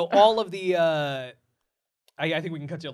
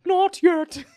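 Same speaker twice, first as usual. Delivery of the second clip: high, loud, menacing squeak; dramatic villain line; 13 semitones higher, 6 dB louder than usual. Acted. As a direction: say it like a cartoon showdown. Gingerbread turns dramatically.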